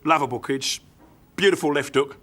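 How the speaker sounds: lightly voiced Cockney doorman; understated London proud dad; London bouncer. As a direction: dote mildly as a London bouncer. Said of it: "He's a lovely bloke".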